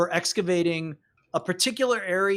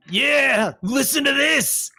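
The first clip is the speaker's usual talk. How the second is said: mocking jeer; 8 semitones higher, 6 dB louder, slower than usual. Hatch mocking Trilby on comms.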